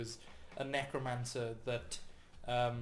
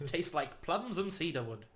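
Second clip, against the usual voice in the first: mock wine snob; 2 semitones higher than usual. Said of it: "people describe 'em in such daft ways".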